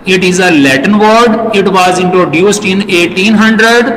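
slow, careful reading of English notes, word by word; slow dictation reading. Acted. Teacher slowly dictating notes to the class. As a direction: read it out slowly so students can write it down.

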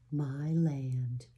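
breathless, stunned whisper; weak whisper. Acted. Ma seeing her new stove, stunned weak whisper. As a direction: barely breathe it out in awe. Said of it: "she said weakly".

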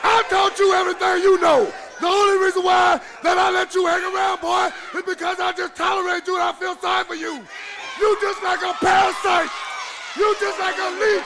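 angry taunting. Acted. Wrestler berates the man claiming he taught him, angry shout. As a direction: tear into the hanger-on.

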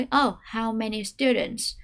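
slow "how many students" with weight on the key words; stressed key phrase. Shown as a demonstration. Teacher shows which words carry new information. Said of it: "cụm từ quan trọng và có thông tin mới".

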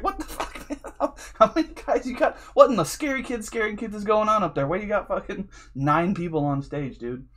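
what on earth is going on up there; incredulous outburst. Retold or imitated. Watching a band with nine members, shocked high yell.

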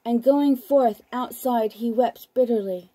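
measured, unhurried Bible reading; scripture reading. Acted. Broadcaster reading scripture to listeners, measured and solemn. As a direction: read the Gospel aloud, steady and solemn. Reads Gospel passage aloud on broadcast.

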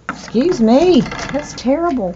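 high and loud through hiccups. Real, not acted. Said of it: "I got the hiccups".

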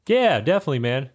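breezy shopkeeper reply; lightly voiced bird baker. Baker agrees to the player, lightly voiced.

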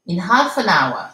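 "in half an hour", sounded H in "half", linked "an hour"; H prononcé et liaison. Shown as a demonstration. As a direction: model "in half an hour" with "an" joined to "hour". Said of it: "avec le H bien prononcé". (« in half an hour », H soufflé puis liaison)

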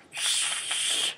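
long shush, then loud shut up; hushing outburst. Retold or imitated. Steven silencing a noisy maths class, hushing then loud. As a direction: hiss a shush, burst into a shout. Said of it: "his way of solving the problem is like".

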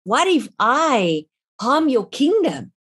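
fearful cry to God, drawn out; mild retold dread; anxious prayer. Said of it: "all of a sudden I thought".

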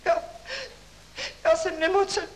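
high, loud, hammed-up whine with stifled laughs; faked sickness. Pupil begging professor to go home, mock high sickly whine. Pupil fakes illness to leave.

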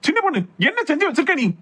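high, swooping reproach; scolding demand. Acted. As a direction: confront the wife, pitch leaping up. Husband confronts wife over collapsed mother.

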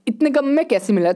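mock-amazed friend, pitch jumping up midway; imitating jealous friend. Imagined friend reacting to the cheap ID, mock envy. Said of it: "जल जल के पागल हो जाएगा, बोलेगा".

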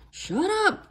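high roaring order. A narrator's reading. Captain roars at his own men to be silent. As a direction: bellow it at the crew. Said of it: "Captain Bones roared at his men".

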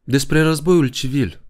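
high, slow, calm prompt; a slow, steady nudge; calmly reminding the old colonel. A narrator's reading. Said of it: "cu o voce calmă".

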